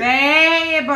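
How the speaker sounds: yelled exasperated call; exasperated shout. Real, not acted. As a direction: shout in protest at your teammate. Scolding partner mid-game.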